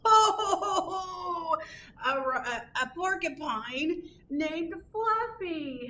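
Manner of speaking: high, breathless laughing through the words; howling with laughter. A narrator's reading. Rhinoceros howling at the name Fluffy, high and laughing. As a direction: barely get the name out for laughing. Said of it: "howled the rhinoceros".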